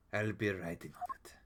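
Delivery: a breathy parting whisper. Acted. Prosecutor whispering a parting line. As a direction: whisper it as you leave.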